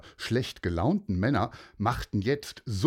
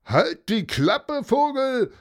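higher, louder, rude yell; rough shout; 13 semitones higher, 6 dB louder, slower than usual. Acted. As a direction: bark it back at the bird. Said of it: "rief Hausmeister Knochig".

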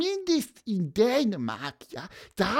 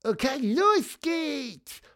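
a lightly voiced little bird piping; a hint of a peep, rising on los geht's; chirping; 3 semitones higher than usual. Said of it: "Dann piepste er".

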